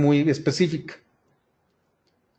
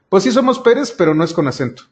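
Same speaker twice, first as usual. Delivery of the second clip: higher and louder, a playful imitation of a proud family; mock family insistence; 3 semitones higher, 3 dB louder, faster than usual. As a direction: play the relatives insisting they are Pérez, lightly. Families insisting on their surname.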